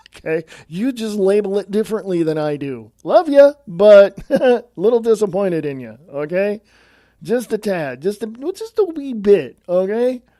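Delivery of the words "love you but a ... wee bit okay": sarcastic, sing-song, understated mild letdown tone. Telling the audience about feeling let down: sarcastic. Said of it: "I'm being sarcastic".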